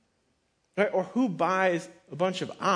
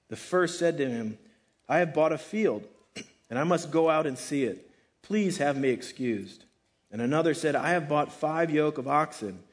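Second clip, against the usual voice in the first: measured, deliberate Bible reading; scripture reading; 3 semitones lower than usual. Acted. Reading the Bible passage aloud.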